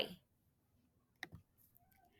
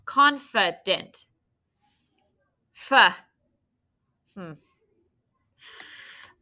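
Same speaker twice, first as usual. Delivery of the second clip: slowly drawn out, every syllable clear; slow syllable demo; 5 dB louder, slower than usual. Shown as a demonstration. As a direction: stretch it out for the kids. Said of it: "now the middle".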